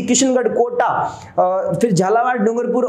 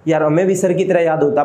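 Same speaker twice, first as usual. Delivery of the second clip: a lower, lightly wishful student voice; wistful student; 6 semitones lower than usual. Retold or imitated. Teacher voices what his students secretly wish, mildly wistful. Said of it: "बच्चे यही सोचते होंगे".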